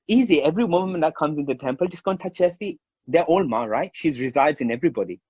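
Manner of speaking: a hint of a friend explaining; imitating his friend. Friend cheerfully explaining the plan, lightly voiced. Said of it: "He was like".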